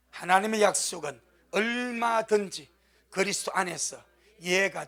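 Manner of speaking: measured congregational verse reading; scripture recitation. Acted. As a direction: read the verse out firmly, phrase by phrase. Reads verse aloud for congregation.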